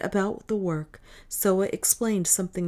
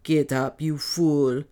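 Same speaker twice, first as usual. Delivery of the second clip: louder, rough order; rough command; 2 semitones lower, 4 dB louder, slower than usual. Acted. Dwarf Otter orders the kneeling freed man, rough. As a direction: bark him back onto his feet. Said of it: "said the dwarf roughly".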